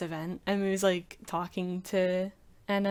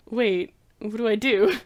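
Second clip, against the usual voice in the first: higher and louder, frantic question; flustered panic; 4 semitones higher, 10 dB louder than usual. Retold or imitated. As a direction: scramble for what to do. Panicked Emu voiced.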